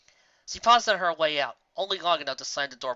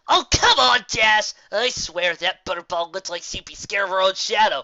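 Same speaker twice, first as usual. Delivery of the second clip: eager pushing; 5 semitones higher, 8 dB louder than usual. Acted. Gilda pushing Dash eagerly.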